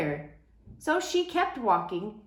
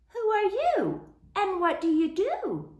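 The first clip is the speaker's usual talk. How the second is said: high, friendly and kind; a gentle welcoming question; very nice voice; 11 semitones higher than usual. Acted. Zebras greet the crying cow in a high, kind voice. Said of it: "came a very nice voice".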